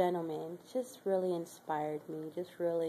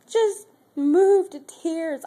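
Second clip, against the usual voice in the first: moved to tears; 8 semitones higher, 10 dB louder, much slower than usual. Real, not acted. Recalling resident's words of love.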